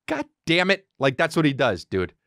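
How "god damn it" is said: restrained imitation of dad's cursing; mild mock anger; mad dad. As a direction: curse like an exasperated father. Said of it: "when my dad's mad, he just goes".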